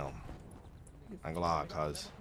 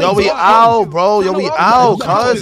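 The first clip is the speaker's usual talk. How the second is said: louder rallying call to leave; 4 dB louder, slower than usual. Pretend. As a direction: call the crew away over the noise. Calling friends to leave amid argument.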